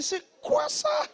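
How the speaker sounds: slow disbelieving question through laughter; incredulous laughing. Acted. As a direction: ask it cracking up, stretching the words. Laughing incredulous reaction to prayer.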